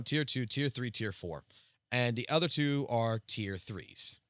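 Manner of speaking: normal talking voice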